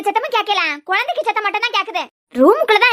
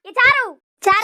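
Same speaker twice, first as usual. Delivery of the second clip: calling out a name; 4 semitones higher, 4 dB louder, slower than usual. Acted. Calling name through door.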